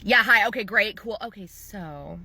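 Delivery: mock-polite, hurrying to the point; not very friendly. Client rushing phone greetings before her pitch, mildly unfriendly. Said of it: "that's how the phone call sounded".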